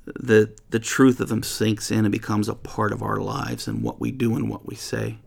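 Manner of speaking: earnest, unhurried prayer fading toward the amen; closing prayer. Acted. Pastor closing the Bible study in prayer, earnest and hushed. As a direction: pray it sincerely, letting the last words drop away.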